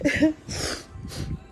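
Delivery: breathy, voiceless sniffle; allergy sniffle. Real, not acted. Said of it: "my allergies are acting up".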